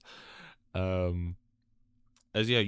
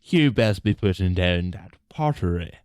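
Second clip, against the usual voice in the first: stern shopkeeper. Acted. Shopkeeper NPC scolding player.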